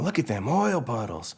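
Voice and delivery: slow, curious country drawl; Mater voice. Acted. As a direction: marvel at it like Mater. Mater voiced in pitch story.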